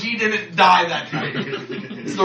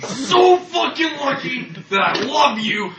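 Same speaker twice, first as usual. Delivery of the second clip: mock threatening; 3 semitones higher, slower than usual. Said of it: "I look at him like".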